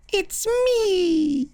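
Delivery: very high squeaky demon voice. Pretend. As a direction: shriek it like a silly demon. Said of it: "my demon voice".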